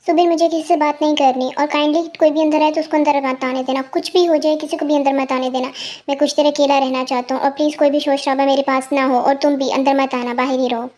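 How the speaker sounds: low, controlled annoyance; understated anger. Acted. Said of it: "तुम इतने गुस्से में क्यों लग रहे हो". (दबे गुस्से में, नीची आवाज़)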